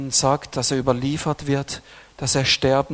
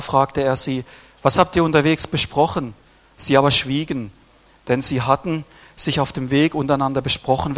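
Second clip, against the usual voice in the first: scripture reading. Acted. Preacher reads Mark to the church, in a solemn scripture voice. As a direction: read the passage aloud to the congregation.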